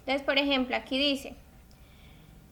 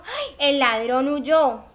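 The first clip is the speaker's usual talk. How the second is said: slow, louder, exaggerated read; drawn-out example; 7 dB louder, much slower than usual. Shown as a demonstration. Teacher dramatizing the example, slow and louder. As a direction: stretch out the sentence for the class. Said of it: "si yo le digo".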